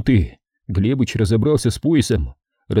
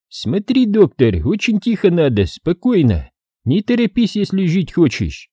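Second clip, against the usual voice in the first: raised, threatening instruction; menacing warning; 8 semitones higher than usual. A narrator's reading. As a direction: warn him coldly. Сулейман угрожающе наставляет. (угрожающее предупреждение)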